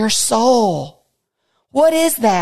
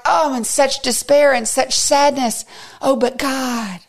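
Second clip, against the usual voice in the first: mock despairing sigh; 5 semitones higher than usual. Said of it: "and then we're like".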